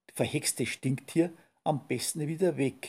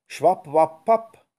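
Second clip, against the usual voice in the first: witch trying spells; 3 semitones higher, 9 dB louder, slower than usual. Acted. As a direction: test out each spell word in a crackly witch voice. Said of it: "grübelte die Hexe".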